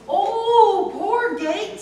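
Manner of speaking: put-on girl's voice. Sasha pities the creaking gate.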